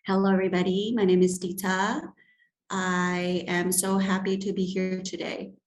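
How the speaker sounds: flat, one-note delivery; monotonic. Shown as a demonstration. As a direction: say it in one dull tone. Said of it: "If I am in a monotonic tone".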